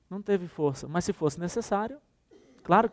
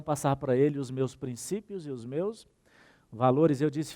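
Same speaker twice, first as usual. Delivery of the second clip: ordinary talk, nothing marked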